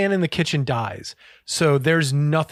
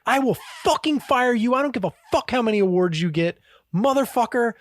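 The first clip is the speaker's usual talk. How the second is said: imitated angry threat, raised pitch; Gordon Ramsay; 6 semitones higher than usual. Chef threatens salad prep guy, mock angry yelling. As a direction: act out a chef's yelling without the volume. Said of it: "He's yelling at people".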